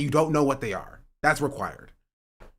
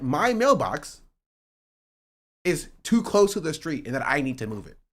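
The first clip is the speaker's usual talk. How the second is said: indignant rant; 4 semitones higher, 3 dB louder than usual. Real, not acted. Ranting against HOA rules.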